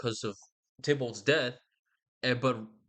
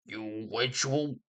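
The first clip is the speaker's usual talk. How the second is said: mock angry father; 2 semitones higher than usual. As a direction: scold the unruly daughter in a staged fury. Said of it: "He's very angry".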